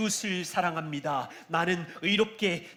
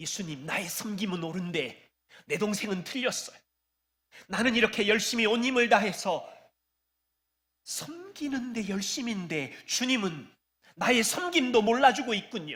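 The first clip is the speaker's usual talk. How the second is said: mock bitter, resentful, complaining outpour; 3 semitones higher than usual. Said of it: "원망을 쏟아내는".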